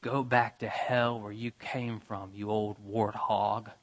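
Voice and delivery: slow, low, lightly voiced girl's curse. Girl cursing Mrs Turpin in the waiting room, slow low menace. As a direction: drag out the insult slowly, a hint of menace.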